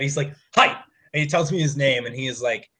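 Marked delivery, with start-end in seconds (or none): 0.5-0.7 imitating an eager stranger; short, punchy retold hello; excited greeting. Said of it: "He's, like, really excited".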